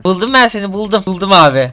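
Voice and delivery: high, loud cry of triumph; crowing that he found his hiding friend; excited find. Real, not acted. To his hiding friend, gleeful I-found-you shout.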